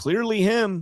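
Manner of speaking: heavy knowing sarcasm. Commenting on surveillance footage of the defendant: sarcastic. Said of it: "I'm being very sarcastic in that".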